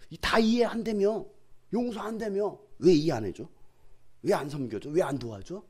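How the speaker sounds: mildly aggrieved questioning; resentful reproach. Retold or imitated. Believer asking members for help, mildly aggrieved. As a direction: press each grievance as a question. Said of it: "막 원망하기 시작해요".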